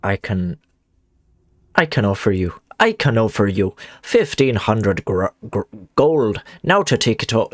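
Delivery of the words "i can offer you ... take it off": put-on Irish accent. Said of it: "that is my Irish".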